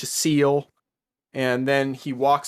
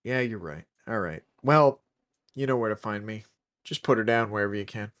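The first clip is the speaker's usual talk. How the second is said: plugging nose voice; 2 semitones lower, faster than usual. Acted. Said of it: "Are you plugging your nose while you do that voice?".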